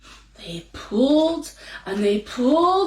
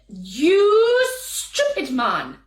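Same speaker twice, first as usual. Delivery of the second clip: scolding wife; 6 semitones higher, 4 dB louder, much slower than usual. Acted. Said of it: "said his wife".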